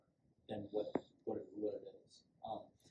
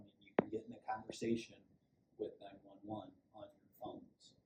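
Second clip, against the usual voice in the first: whisper; 7 dB quieter than usual. Shown as a demonstration. Whisper demo while barricaded.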